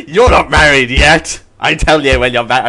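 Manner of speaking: a goofy teacher voice, slowed; odd put-on voice. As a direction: play a silly stern teacher. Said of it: "I don't know why I'm doing this voice".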